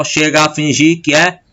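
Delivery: "chega a" with both a sounds as one; joined vowels. Shown as a demonstration. Teacher showing one sound only, vowels merged in "chega a". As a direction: run "que é" together into one rising syllable. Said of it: "como sai um som só".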